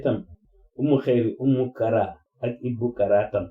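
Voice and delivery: measured declaration in short phrases; formal testament. Real, not acted. Addressing the family with a testament, formal and measured. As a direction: deliver it formally, pausing between phrases.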